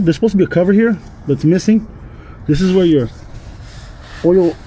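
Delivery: talking while lying under a car; strained, working under a car. Real, not acted. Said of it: "so I'm under the car".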